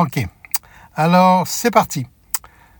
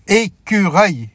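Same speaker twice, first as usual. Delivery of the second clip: slow syllable demo; 2 semitones higher than usual. Shown as a demonstration. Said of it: "Combien y a-t-il de syllabes".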